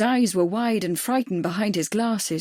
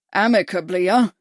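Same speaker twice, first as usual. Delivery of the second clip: sneering snarl, louder; 6 dB louder than usual. A narrator's reading. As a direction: spit the word back at him. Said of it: "Murray snarled".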